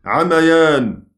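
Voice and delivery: عميان said very slowly; drawn-out demo word. Shown as a demonstration. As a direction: stretch عميان as an example. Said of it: "عمى".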